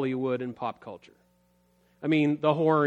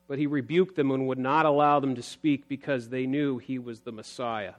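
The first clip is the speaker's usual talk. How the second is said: ordinary talk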